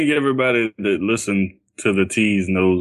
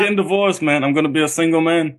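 higher, playful announcement voice; silly voice; 5 semitones higher, faster than usual. Pretend. Announcing his divorce to his co-host in a high goofy voice. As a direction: lean into the goofy delivery. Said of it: "can you do that".

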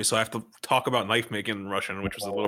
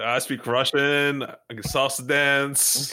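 slow, drawn-out teasing boast; mock show-off voice; mock bragging; 2 semitones higher, slower than usual. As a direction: stretch each skill out, playfully imitating a show-off. Teasing the other for showing off.

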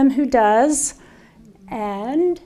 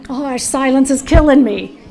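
mock exasperation; 5 dB louder than usual. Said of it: "how many of y'all are going crazy".

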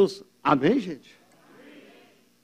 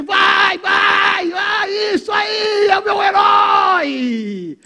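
cheering crowd; 8 semitones higher, much slower than usual. Retold or imitated. Preacher mimics fans cheering their hero. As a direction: cheer on the team like a fan in the stands. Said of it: "A multidão apoiando o time".

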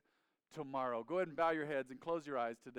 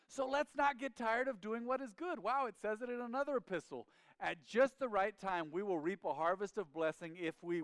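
raised, animated verse reading; fervent preaching; 6 semitones higher, 5 dB louder than usual. Acted. Preacher showing church the same message elsewhere, fervent. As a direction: read it out with rising zeal. Reads verse excitedly to congregation.

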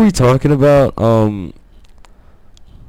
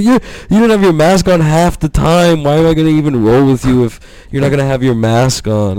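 higher, whiny mock complaint; mock indignant; 4 semitones higher than usual. Gym guy arguing about a mask, higher mock indignation. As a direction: argue back in pretend indignation. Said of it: "And he's like".

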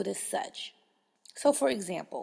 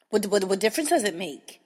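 irritated caller; 5 dB louder than usual. Retold or imitated. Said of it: "caller retold".

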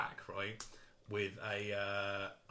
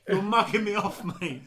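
loud, high mock outrage; acted furious; 8 semitones higher, 7 dB louder than usual. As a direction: lay into them like an offended wheeler-dealer. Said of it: "He gets furious".

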